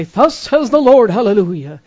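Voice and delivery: loud, high, booming hammed-up pronouncement; mock prophetic proclamation. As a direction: proclaim it like an over-the-top prophet. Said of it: "show up and say".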